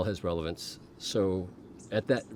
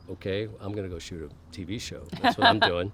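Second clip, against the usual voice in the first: loud defiant insistence; 3 dB louder than usual. Retold or imitated. Retelling a vision, he loudly insists to the mother. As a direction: push back loudly on the last words.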